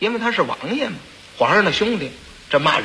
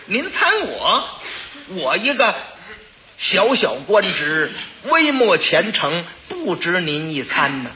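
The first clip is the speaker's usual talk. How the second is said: humble pleading; slower than usual. Acted.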